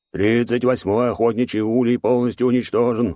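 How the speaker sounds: alarmed messenger voice. Acted. Messenger reports destroyed hive.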